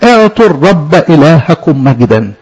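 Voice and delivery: slow, measured verse reading; solemn slow scripture recital; scripture recitation. Acted. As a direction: intone the verse slowly like a reading.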